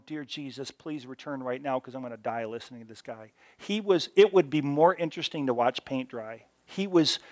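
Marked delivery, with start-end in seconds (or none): 0.1-3.3 inner prayer. Retold or imitated. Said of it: "and I'm going".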